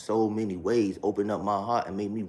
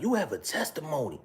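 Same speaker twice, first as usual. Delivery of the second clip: much higher mock pastor voice; imitating father-in-law; 8 semitones higher than usual. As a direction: pitch way up to mimic him. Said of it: "This is how her father talked".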